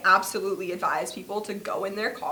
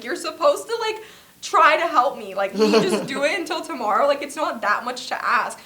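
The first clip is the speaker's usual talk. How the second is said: frustrated pleading; 5 semitones higher than usual. Retold or imitated. To the employee, annoyed higher pleading. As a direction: push the employee, half pleading half angry.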